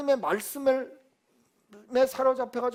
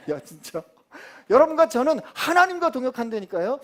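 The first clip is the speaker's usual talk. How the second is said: ordinary talk, nothing marked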